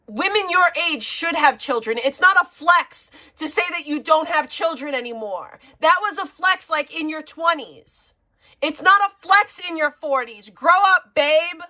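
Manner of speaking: real angry high-pitched lecture; angry rant. Real, not acted. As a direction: tear into her, voice climbing. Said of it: "It's more high pitched when you're mad".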